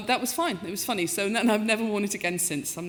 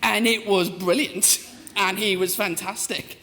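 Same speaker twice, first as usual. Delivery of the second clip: theatrical huffy complaint, slow and rising; mock indignation; slower than usual. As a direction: ham up being wronged. Mock outrage at being overlooked.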